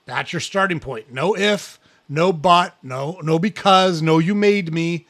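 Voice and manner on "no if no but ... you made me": emphatic listing. Real, not acted. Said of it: "listing banned excuses".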